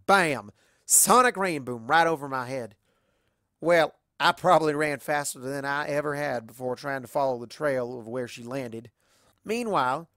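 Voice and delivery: lightly voiced country pony; easygoing storyteller, in character; a hint of a competitive rodeo pony; Applejack telling her tale.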